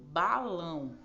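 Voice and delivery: "balão" said out loudly with the weight on the last syllable; stress on final ÃO. Shown as a demonstration. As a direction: teach "balão", stressing the ending "ão". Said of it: "A sílaba tônica tá no final". ("balão" com a última sílaba forte)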